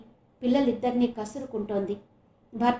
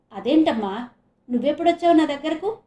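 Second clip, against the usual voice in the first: rising, louder, fast; surprised question; 4 semitones higher, 5 dB louder than usual. Acted. Daughter surprised to find mother in her bed. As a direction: wake up puzzled to find her. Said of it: "అని ఆశ్చర్యంగా చరిత అడిగితే".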